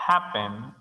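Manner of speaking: "happen" with the weight on HAP; stress on first syllable. Shown as a demonstration. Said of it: "énfasis de sonido en la primera sílaba".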